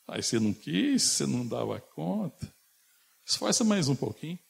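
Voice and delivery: high, sing-song mock taunt; maliciously. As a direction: needle someone who is struggling. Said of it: "maldosamente, de forma maldosa, talvez fizesse". (falando com maldade, em tom de deboche)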